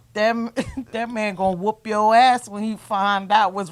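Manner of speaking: laughing as she quotes him; retold through laughter. Quoting grandpa's warning to a friend, through real laughter. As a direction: break into a laugh mid-quote.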